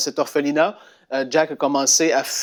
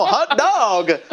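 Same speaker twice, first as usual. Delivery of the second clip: exclamation; 6 semitones higher than usual. Retold or imitated. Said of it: "c'était une expression".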